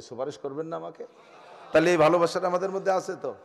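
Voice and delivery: laughing. Real, not acted. Teasing congregation, laughing.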